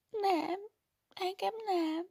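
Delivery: high, quick denial; girl protesting to the worried nun; lively protest. Acted. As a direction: protest eagerly. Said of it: "tiltakozott élénken a leányka".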